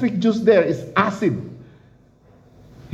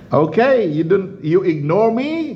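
God's voice. Retold or imitated. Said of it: "God said".

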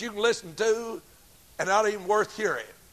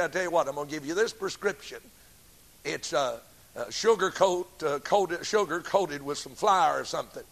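smooth doctor; 5 semitones lower, 6 dB quieter than usual. Retold or imitated. Dishonest doctor voiced in story.

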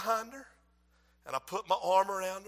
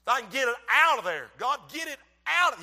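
forceful, raised preacher delivery; insistent, louder sermon plea; preaching; 3 semitones higher, 5 dB louder than usual. Acted. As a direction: urge it out from the pulpit.

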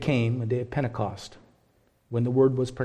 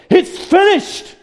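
high, loud, slow anguished cry; cried out; 11 dB louder, much slower than usual. Acted. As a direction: cry it out with the last of your strength. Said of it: "Jesus cries out the words".

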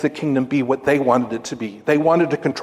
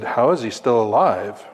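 laughing; 4 semitones lower than usual. Retold or imitated. Joke punchline with laughter.

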